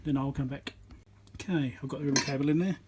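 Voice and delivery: ordinary talk, nothing marked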